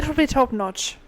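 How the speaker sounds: mock Irish accent. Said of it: "no accents this week".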